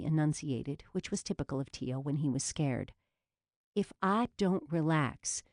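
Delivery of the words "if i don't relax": slow, through gritted teeth; words squeezed through the teeth. Acted. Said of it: "Jules said through her teeth".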